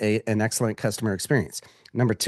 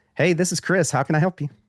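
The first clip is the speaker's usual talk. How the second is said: bright, warm, nice friendly tone, pitched up; 7 semitones higher than usual. Showing how to answer a business phone call: nice and friendly. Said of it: "Nice and friendly".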